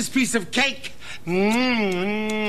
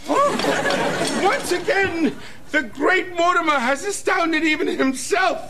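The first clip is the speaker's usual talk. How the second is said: grand showman boast; 5 semitones higher than usual. Acted. Magician boasts after success.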